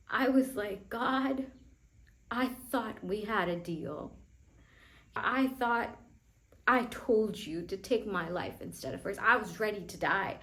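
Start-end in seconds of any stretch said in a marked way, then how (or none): 0.9-9.2 louder, raised, accusing cry to God; a teen yelling at God over her sister's death; angry yell at God. Retold or imitated. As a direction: shout it at God like a broken deal. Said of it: "I was so angry".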